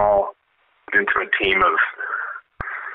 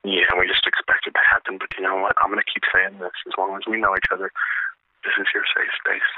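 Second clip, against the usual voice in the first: hypnotist lulling a listener; calming voice; 2 semitones lower than usual. Pretend. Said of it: "Is that voice calming?".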